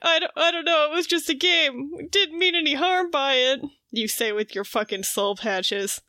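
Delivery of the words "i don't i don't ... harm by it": higher-pitched, lightly acted protest; retold guilty excuse, pitched up; mock defensive excuse. Caught twins excusing their game, mock defensive.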